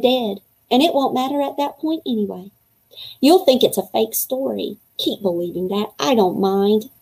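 put-on reading a kid's diary aloud to young listeners; storybook read-aloud voice; story narration. A narrator's reading. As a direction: read it as the boy writing his diary. Reads chapter as boy narrator.

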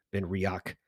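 Riach with a hard 'ock' ending; common reading. Shown as a demonstration. Showing how people read the label, Riach as 'ree-ock'. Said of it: "a lot of people read it as".

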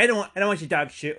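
high, lightly mocked protest; protesting neighbor. Neighbor refusing the offered bag, high mock protest.

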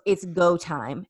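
drawn-out, ominous go time; mock-dramatic waitress; slow dramatic announcement. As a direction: announce it like a big reveal. Waitress announces a singer's arrival.

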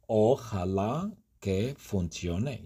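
slow, careful repeat for learners; said slowly. Shown as a demonstration. Teacher repeats the wish slowly for students. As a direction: stretch each word out like a teacher.

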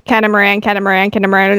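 rapid-fire repetition, run together; attempting a tongue twister at speed; fast tongue twister. Shown as a demonstration. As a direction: rattle off the word as a speed challenge. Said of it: "can you say catamaran five times fast".

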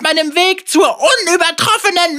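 hohe, theatralische Schurkenstimme; großspurig drohender Zauberer; Bösewicht-Stimme. Acted. Vega voiced by the reader. (hohe Bösewichtstimme)

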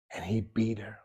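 hushed, breathy whisper of the beating; whispered aside to the congregation. Acted. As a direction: drop it to a secret whisper.

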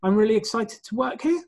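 mock interviewee ending on a rise; uptalk. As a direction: end it going up, unsure of yourself. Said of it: "I hear it at interviews all the time".

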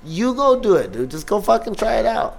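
high-pitched exasperated encouragement; retold insistent urging. Comic telling childhood friend to try stand-up, insistent.

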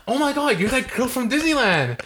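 high-pitched fake delight; hammed-up squeal on meeting someone; put-on high, gushing greeting; mock excited recognition. Acts out recognizing the girl.

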